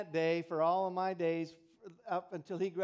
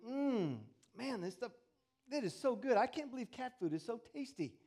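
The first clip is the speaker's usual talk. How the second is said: put-on savoring boy; 3 semitones higher than usual. Boy friend savoring cat food.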